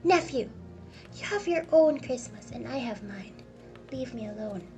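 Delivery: loud, firm retort; cross rebuff. Acted. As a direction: shut the nephew down. Scrooge argues with nephew.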